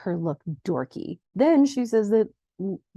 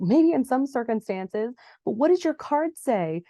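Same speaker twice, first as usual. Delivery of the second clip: higher-pitched, mock exasperated quote; raised pitch, retold upset; 5 semitones higher than usual. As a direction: mildly imitate someone upset and questioning. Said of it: "Sabrina is so upset".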